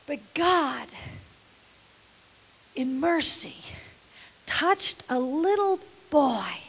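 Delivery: whispered awe; hushed whisper. Acted. Preacher hushing the congregation, reverent whisper.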